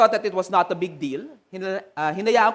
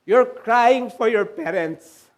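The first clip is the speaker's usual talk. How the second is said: slow, measured voice of God; a lightly voiced God speaking slowly; much slower than usual. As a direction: let each word of God land slowly. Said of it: "God was saying".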